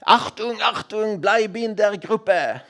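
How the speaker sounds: a hammed-up ski instructor calling a straying kid back; imitating ski teacher. Ski teacher calling after the little boy in the lift queue, slow mock commands. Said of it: "saying, uh, something like this".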